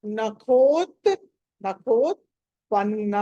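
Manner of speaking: నఖోత్పన్న with a strongly aspirated "kho"; pressed aspirated "kha". Shown as a demonstration. Teacher showing the kha sound, నఖోత్పన్న with pressed "kh". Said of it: "ఒత్తి పలకాలి".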